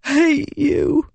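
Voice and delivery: put-on high, wounded boy's voice; a dying boy spitting his resentment; hurt boy. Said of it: "he repeated".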